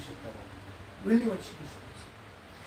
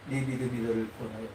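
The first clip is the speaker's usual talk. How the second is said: smiling, gentle Jesus; 9 semitones lower, 5 dB quieter than usual. Acted. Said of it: "웃으면서 얘기합니다".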